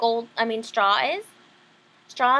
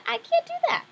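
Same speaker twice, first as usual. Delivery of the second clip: put-on frightened girl; 14 semitones higher than usual. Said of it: "And she said".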